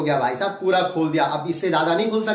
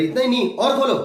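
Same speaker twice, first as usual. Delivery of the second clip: doctor pushing a little louder and higher; mock doctor raising his voice; insistent doctor; 5 semitones higher, 4 dB louder, faster than usual. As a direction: urge the patient to open wider. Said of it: "बोले".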